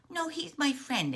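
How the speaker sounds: high, pleading little-one voice; protesting little frog. Acted. Little Frog defends the friend to mother, protesting. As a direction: protest up high like a small child.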